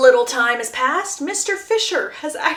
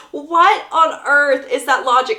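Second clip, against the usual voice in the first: loud incredulous laugh through the words; cracking up at the absurd logic; louder, laughing in disbelief; 5 semitones higher, 6 dB louder than usual. Real, not acted.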